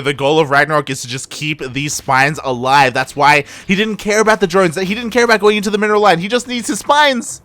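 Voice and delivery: urgent explanation climbing in pitch; rising esports commentary; excited play-by-play. Real, not acted. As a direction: build the tension as you explain. Live play-by-play.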